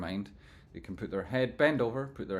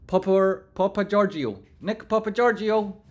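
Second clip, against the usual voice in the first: higher, louder hype call; 11 semitones higher, 11 dB louder than usual. Real, not acted. Streamer shouting a viewer's name across the chat, loud.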